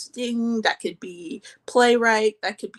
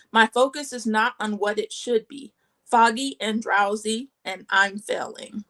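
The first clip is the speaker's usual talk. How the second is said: measured poem recital, pausing between short lines; spoken poem in short, separated phrases; poetry reading. Acted. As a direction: read your own poems aloud, phrase by phrase. Reads own poems aloud.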